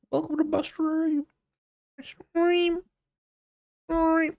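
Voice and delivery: squeaky high welcome, way up; high-pitched greeting. Acted. Streamer greets chat in a squeaky high voice.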